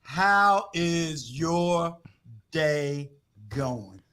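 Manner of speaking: very slow, low interview voice; mock smooth host. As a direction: draw each word out, deep and deliberate. Host's mock-smooth opening question.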